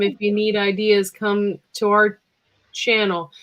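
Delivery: put-on light New York accent. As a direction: say it like a New Yorker. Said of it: "I said that in a New York accent".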